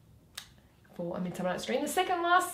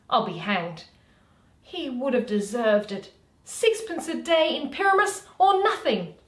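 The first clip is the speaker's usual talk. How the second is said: loud lamenting Flute, a little higher; 3 semitones higher, 7 dB louder than usual. Acted. Flute lamenting Bottom to the players, loud. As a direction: mourn Bottom's lost sixpence loudly.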